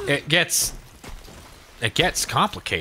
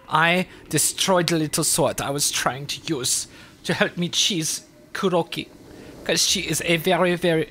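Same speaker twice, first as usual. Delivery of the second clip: French accent slip; 3 semitones higher than usual. Shown as a demonstration. Gamer explaining the boss fight, German accent turning French. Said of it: "That was French again!".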